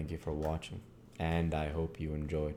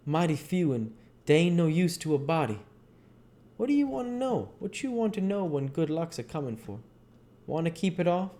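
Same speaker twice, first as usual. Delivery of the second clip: much higher, louder folksy voice; high, emphatic dialect voice; Jim; 12 semitones higher, 3 dB louder than usual. Acted. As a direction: play him scoffing at good-luck signs. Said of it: "He says".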